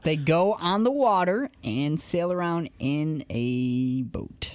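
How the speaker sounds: slow, spelled-out explanation; slow right down, dropping on the last word; condescending explanation. Real, not acted. Co-host explains cruises as if to idiots, condescending.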